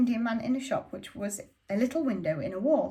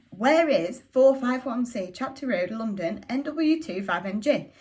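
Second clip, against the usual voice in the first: slow, the address spelled out, a bit louder on where; slow insistent repeat; slow repeated asking; 4 dB louder, slower than usual. Acted. Asks the shopkeeper again.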